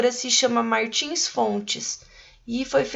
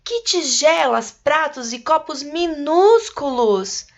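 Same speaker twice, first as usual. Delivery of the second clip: reading with a touch of amazement, higher; voz de espanto; 4 semitones higher than usual. Shown as a demonstration. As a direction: lift the voice in wonder at the tiny dishes. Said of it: "com uma voz de espanto". (com voz de espanto)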